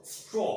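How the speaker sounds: "स्ट्रॉ" as a drawn s plus ट्रॉ; teacher showing both sounds in "स्ट्रॉ"; two syllables. Shown as a demonstration. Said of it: "इनके syllables बनते हैं दो".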